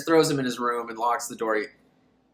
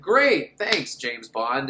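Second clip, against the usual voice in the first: sarcastic thanks; 2 semitones lower, much slower than usual. Retold or imitated. Sarcastic remark to hero.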